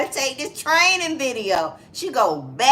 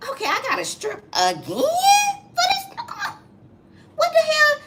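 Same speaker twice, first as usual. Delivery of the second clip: high, laughing-crying wail; hammed-up sobbing rant in a high voice; mock crying protest. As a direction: imitate her crying in outrage. Retold crying complaint.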